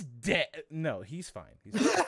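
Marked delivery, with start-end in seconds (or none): 1.6-2.0 squeaky. Real, not acted. Sudden high backpedal.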